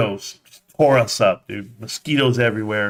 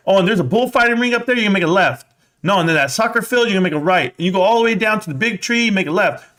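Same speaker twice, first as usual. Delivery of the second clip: excited directions; 8 semitones higher, faster than usual. Retold or imitated. Boys guiding the adults, high and excited. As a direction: rattle off the turns like a proud kid.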